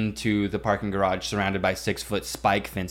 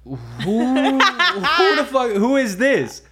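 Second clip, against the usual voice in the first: high, loud terrified shriek at an intruder; panicked shriek; 6 dB louder, much slower than usual. Retold or imitated. Woken roommate shrieking at a stranger in the house, terrified. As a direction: shriek it in shock, voice cracking high. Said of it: "And I'm like".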